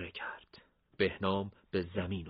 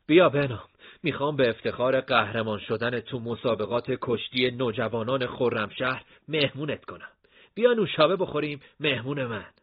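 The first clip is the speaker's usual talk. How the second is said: eager Hashem voice; 4 semitones higher, 6 dB louder than usual. Acted. Hashem voiced, inviting Behnam.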